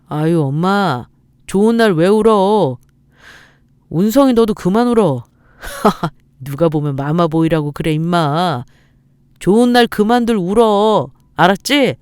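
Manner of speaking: jolly son telling everyone to stop crying; older son jokingly chiding mother and brother; teasing older son. Acted. Older son teases crying family.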